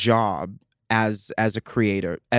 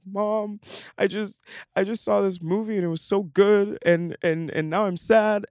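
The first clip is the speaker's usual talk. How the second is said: put-on whiny teen self; 9 semitones higher than usual. Teen self complaining to mom.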